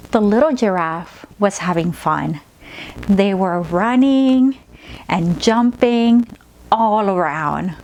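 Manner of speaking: slow, gentle story read; soothing children's story narration; storytelling to a child. Acted. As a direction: tell it like a bedtime tale, drawn out. Storytelling during massage demo.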